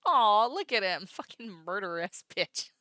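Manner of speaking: loud, slow, half-doting half-cursing; mock doting. Streamer quoting her own reaction to Soul, loud and slow. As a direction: coo at him, then swear. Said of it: "I'm sitting here being like".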